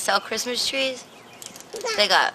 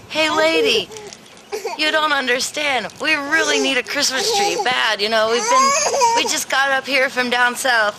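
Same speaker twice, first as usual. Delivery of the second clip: high pleading voice; pleading to lady; 4 semitones higher than usual. Retold or imitated. On the phone to the farm lady, high urgent pleading. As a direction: beg the lady for a tree. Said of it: "and I was like".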